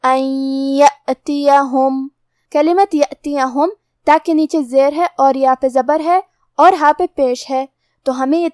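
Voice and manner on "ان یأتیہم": slow, drawn-out Quran recitation demo; tajweed recitation. Shown as a demonstration. Teacher demonstrating the rule to students, slow recitation. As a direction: recite each letter slowly and clearly. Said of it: "یا میں ملا کے غنہ اور تشدید کے ساتھ".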